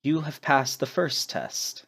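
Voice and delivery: a hint of a solemn trickster, slowed down; Rupka. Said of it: "in the voice of Rupka says".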